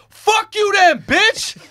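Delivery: loud, high mock yell at someone; retold angry shout. Friend cursing out the bouncer over a shoulder, mock shouting.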